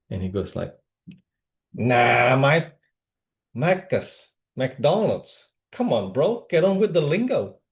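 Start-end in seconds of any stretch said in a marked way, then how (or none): 1.7-7.6 lightly imitated Aussie bodybuilder; a touch of broad Aussie, setting a mate straight; Dean. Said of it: "Dean was this Aussie bodybuilder".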